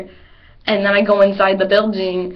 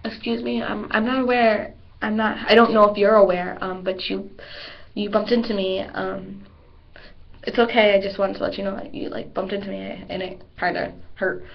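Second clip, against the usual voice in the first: polite. Retold or imitated. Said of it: "a better way to handle this".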